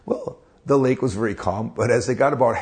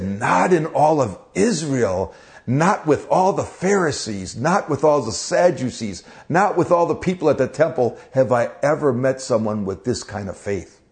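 astounded praise. Retold or imitated. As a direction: marvel at the soldier's faith. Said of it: "Jesus was astounded by his faith".

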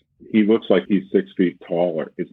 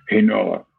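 tight, held-breath delivery; choked voice; 3 semitones higher than usual. Shown as a demonstration. Showing the listener a tight choked voice. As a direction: squeeze the words out with a choked throat. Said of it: "this kind of choke".

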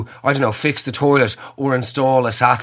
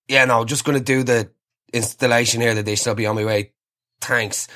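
unimpressed installer; 3 semitones lower than usual. Retold or imitated. Installer's flat reply.

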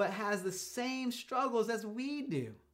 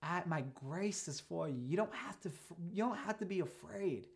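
gentle reminder; 4 dB quieter than usual. Pretend. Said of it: "he's trying to remind him".

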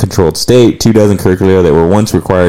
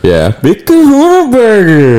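much higher, slow, hammed-up movie line; Pulp Fiction quote; 13 semitones higher, slower than usual. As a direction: ham up the burger line from the film. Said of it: "like Pulp Fiction or whatever".

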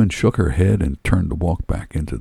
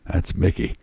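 whisper; 5 dB quieter than usual. Acted. Harold's resigned aside.

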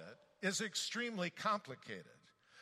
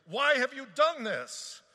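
afraid sailors; 10 semitones higher, 12 dB louder, slower than usual. A narrator's reading. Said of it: "the men were exceedingly afraid".

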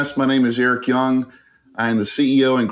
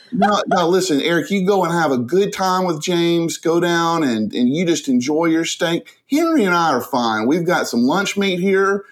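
lightly higher, sugary wife voice; mock sweet wife; 5 semitones higher than usual. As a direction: play the wife's fake generosity, sweetly. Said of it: "what she did".

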